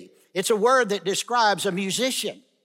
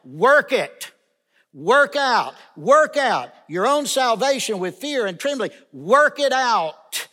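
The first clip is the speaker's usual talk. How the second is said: emphatic; 4 semitones higher, 4 dB louder than usual. Real, not acted. Preacher hammers the main point.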